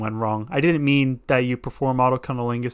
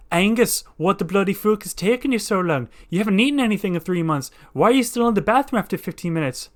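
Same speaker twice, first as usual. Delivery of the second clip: nagging wife; 6 semitones higher than usual. Acted. Woman yelling through bathroom door.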